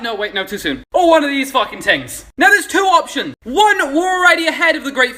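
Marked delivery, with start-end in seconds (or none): 0.0-0.8 softer quick retraction; hushed backpedal. Acted. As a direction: pull it back under your breath. Retracting the joke.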